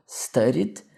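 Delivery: "studied" ending in a D; final D sound. Shown as a demonstration. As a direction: say "studied" with a clear D at the end. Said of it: "claramente a gente tem um D".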